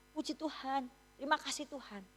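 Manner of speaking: very soft, imitated prayer of gratitude; acted quiet praise, much softened; hushed thanks. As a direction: murmur thanks to God as the new mother. Mother's tearful thanks, retold.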